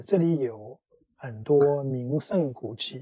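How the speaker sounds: 这里有 with 有 pressed, 很多名胜古迹 slow; teacher models emphasis, slow and clear; stress on 有. Shown as a demonstration. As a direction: slowly draw out 有 and the noun. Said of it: "You can emphasize the important noun as well as 有".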